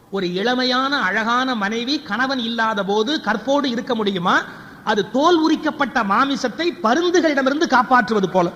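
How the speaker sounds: emphatic, measured epic declamation; declamatory recitation. Acted. Storyteller quotes Vyasa's simile to the audience, declaiming. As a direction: proclaim each phrase with rising force.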